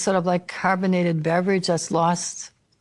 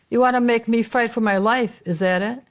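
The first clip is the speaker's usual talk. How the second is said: higher, quicker dramatic challenge; heated accusation; 4 semitones higher than usual. Acted. Man confronting the woman in a monologue, heated accusation. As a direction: throw the accusation out in one run. Monologue climax, first take of line.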